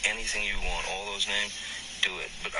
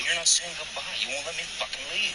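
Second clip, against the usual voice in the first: frustrated demand; 10 semitones higher than usual. Real, not acted. Heated couple argument.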